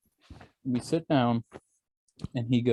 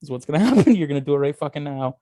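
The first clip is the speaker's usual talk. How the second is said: mock threat; 2 semitones higher, 4 dB louder, faster than usual. Threatening the clerk for laughs.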